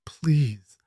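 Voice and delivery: breathless unvoiced whisper. Terrified girl begging Leora to get her out, whispered. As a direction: breathe the word with no voice at all. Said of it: "the girl whispered".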